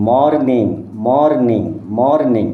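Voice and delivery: মর্নিং in two beats, মর then নিং; split into syllables. Shown as a demonstration. Teacher drilling a pupil, মর্নিং broken as মর-নিং. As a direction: repeat মর্নিং carefully, syllable by syllable. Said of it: "এখানে দুটো syllable আছে".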